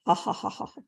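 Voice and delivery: soft, breathy staged ha-ha; mock laugh. Mad man laughing off Parshuram, mock laugh. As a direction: imitate a dismissive laugh, quietly. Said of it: "laughs at him".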